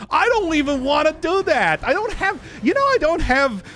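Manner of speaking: excited. Real, not acted. Frantic during fight.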